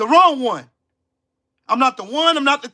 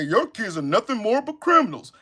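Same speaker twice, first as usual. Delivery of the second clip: mock TV pundit; 5 dB quieter than usual. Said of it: "sit on national T V and say".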